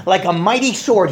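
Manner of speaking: normal talking voice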